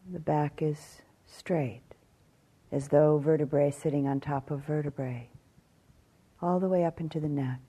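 calm meditation guidance with long pauses; measured phrases, spaced out by silence; guided meditation. Acted. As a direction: guide them gently through the body, leaving long silences.

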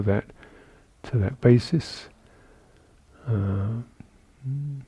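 calm, measured meditation guidance with long pauses; guided meditation. Real, not acted. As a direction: guide sitters gently through the body, leaving space between phrases. Leads a seated body-awareness meditation.

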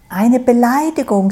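a lightly squeaky straw voice. A narrator's reading. Stroh complaining to Sau, lightly squeaky. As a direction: pipe it up like a tiny indignant straw. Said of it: "mit piepsender Stimme".

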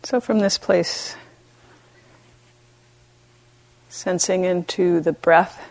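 gentle meditation guidance with long pauses; unhurried, even voice, leaving space between phrases; guided meditation. Real, not acted. Teacher guiding retreatants to befriend themselves, calm meditation voice.

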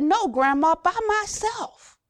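put-on high, slow child's voice, stubborn; little girl insisting. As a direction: play the small granddaughter refusing help. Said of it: "she said".

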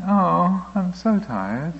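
a hammed-up little moan of tiredness; plaintive pleading voice.

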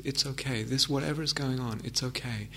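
soft and gentle, soothing yourself; gentle reassurance. Shown as a demonstration. Meditation teacher voicing self-reassurance, gentle and soft. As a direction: drop it in gently, like to a child. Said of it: "in a gentle tone of voice".

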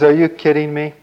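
storyteller's amused, incredulous ogre; scoffing ogre. A narrator's reading. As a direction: scoff loudly at a puny challenger. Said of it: "the ogre just laughed".

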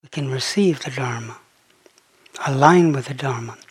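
measured meditation voice with long pauses; unhurried, settled phrases, leaving space after each; guided contemplation. Real, not acted. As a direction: lead listeners gently into contemplation. Leads a slow contemplation.

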